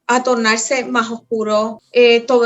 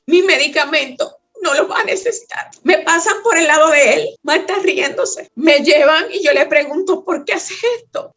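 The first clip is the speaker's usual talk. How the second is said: más aguda, conteniendo el llanto real; voz llorosa; 4 semitones higher than usual. Real, not acted. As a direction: habla a punto de llorar. Llorosa al recordar su arresto. (llorosa de verdad, tono alto)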